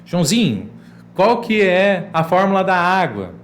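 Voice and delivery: loud, high, lively teacher voice; teacher quizzing pupils. Shown as a demonstration. Teacher demo to imaginary pupils, loud and upbeat. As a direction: play the teacher cheering on a pupil. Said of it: "Faça perguntas para os seus estudantes imaginários".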